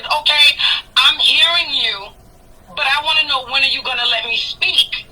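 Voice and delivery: measured, patient retold reply with pauses; composed, deliberate self-quote; calm. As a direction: keep your composure while asking for a turn. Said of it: "I'm sitting real calm".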